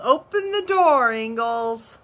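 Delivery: loud, high shout at the door; a worker calling to Pa through the door; called out. A narrator's reading. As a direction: demand entry from outside. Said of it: "and one called".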